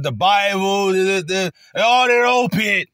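high, loud mock scream; hammed-up angry official screaming; retold screaming. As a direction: scream the words up at the guy. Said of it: "he's just fucking screaming".

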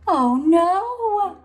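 high, loud oh no; sudden dismay of a worried mom; dismayed Mama. Acted. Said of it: "says Mama".

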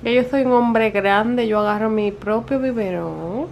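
slow, drawn-out little boast; playful pretend big boy; lightly voiced baby. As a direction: proudly speak for a baby. Voicing the baby with bottle.

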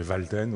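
Walden said the French way, /valtɛn/, with a V sound and French vowels; French pronunciation. Shown as a demonstration. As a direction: give Walden a French sound, not English. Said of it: "je franciserai son nom".

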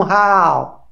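"rau" drawn out slowly; mimicked misreading. Commentator criticising his colleague's reading, mimicking the drawn-out syllable. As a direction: stretch out "rau" to mimic a poor reader. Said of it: "como pronunciar uma sílaba".

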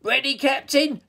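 high, loud taunting troll; grinning troll. A narrator's reading. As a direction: relish the threat with a grin. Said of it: "Toilet Troll grinned".

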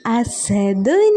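put-on ഹുറൂഫുൻ said very slowly and drawn out for children to copy; teacher modelling അസദുൻ for the class; slow Arabic model word. Shown as a demonstration. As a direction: spell out അസദുൻ syllable by syllable, very slowly. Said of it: "എന്താണ് പറയുക?".

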